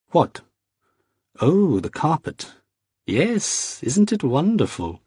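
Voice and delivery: high, bright-eyed eager nobleman; a high, beaming French aristocrat; delighted young Vicomte. A narrator's reading. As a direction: gush over the carpet like an excited young host.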